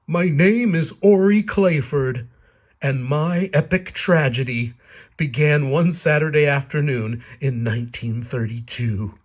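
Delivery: slow, grand tragic storyteller; old man voice. Acted. The old man starts his sob story, slow and grand. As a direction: announce the epic tragedy slowly. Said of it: "He says".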